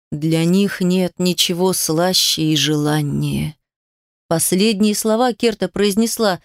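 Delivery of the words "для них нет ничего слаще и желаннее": slow, low voice from beyond the grave; a lightly spooky ghost-story hush; sepulchral voice. Acted. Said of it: "таким замогильным голосом".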